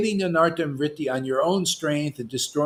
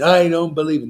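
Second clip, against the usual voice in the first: mock skeptic; 2 semitones higher, 6 dB louder than usual. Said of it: "Narayan Maharaj Guru".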